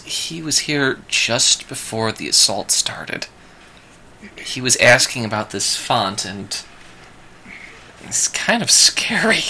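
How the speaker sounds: softly, with a touch of fear; mild fear. Acted. Woman recounting the stranger's visit to the party, mildly afraid. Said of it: "fear in her voice".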